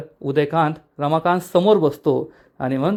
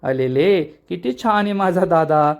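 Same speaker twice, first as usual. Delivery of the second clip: cooing at him like a baby, mocking; pinch-his-cheeks baby talk; villain cooing mockingly at his tied-up brother; 2 semitones higher than usual. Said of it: "गालगुच्चे घेतो".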